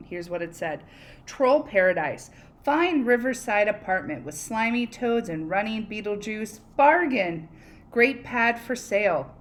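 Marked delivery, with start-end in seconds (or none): 1.3-9.3 louder salesy advert voice; ad read. Acted. Teacher reading the troll's advert to class, salesy. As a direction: sell it like a cheesy real-estate ad.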